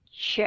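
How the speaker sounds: "Ch" as a light, brief "chuh"; unstressed, reduced "Ch"; schwa sound. Shown as a demonstration. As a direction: let the vowel after "Ch" shrink to schwa. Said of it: "đọc là schwa sound".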